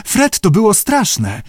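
slow, high-pitched frightened whine; whimpering. A narrator's reading. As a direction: draw out the complaint in a high whimper. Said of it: "kwilił koteczek". (przeciągłe, płaczliwe kwilenie)

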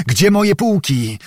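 hoarse. A narrator's reading. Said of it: "powtarzał chrapliwym głosem".

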